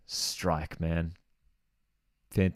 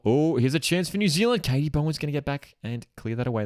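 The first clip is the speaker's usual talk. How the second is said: excited; 7 semitones higher than usual. Real, not acted. Sudden chance in match.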